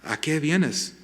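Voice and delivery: mildly tender, merciful question; compassionate. Retold or imitated. Jesus repeats his question to Judas, compassionate. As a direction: ask with a touch of compassion. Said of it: "él responde con esta misericordia, compasión".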